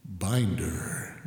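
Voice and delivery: slow, booming announcer proclaiming the binder; mock-solemn announcer voice; big boomy voice. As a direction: boom it out like a grand reveal. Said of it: "can I have the big boomy voice".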